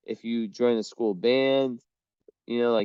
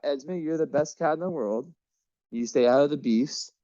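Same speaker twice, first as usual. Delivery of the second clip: praising cat; 4 semitones higher than usual. Real, not acted. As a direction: coo at the good cat.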